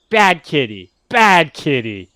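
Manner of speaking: parrot voice. Acted. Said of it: "its little parrot voice".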